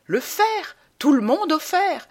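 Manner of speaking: high, ringing campaign shout; rallying cry. Acted. Candidate rousing the crowd with a high shout. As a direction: proclaim it to the crowd.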